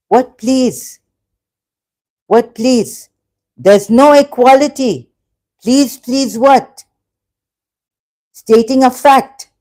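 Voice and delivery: high-pitched exasperated challenge. Real, not acted. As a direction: push back insistently, pitched well up. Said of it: "I start to get very passionate".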